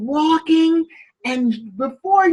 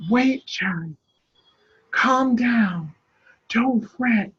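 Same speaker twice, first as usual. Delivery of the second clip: gentle comfort; 3 semitones lower, 4 dB quieter, slower than usual. Acted. Toby comforting Sarah.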